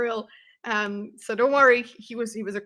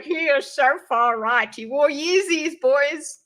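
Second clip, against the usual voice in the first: mocking quote; 3 semitones higher, slower than usual. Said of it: "people are like".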